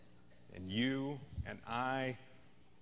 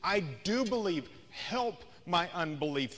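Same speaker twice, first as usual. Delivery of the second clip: a mild exclaim, the first line pitched up; 4 semitones higher than usual. Retold or imitated. The father cries out to Jesus, a mild exclaim. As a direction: burst out with it, rising on do. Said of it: "he exclaimed".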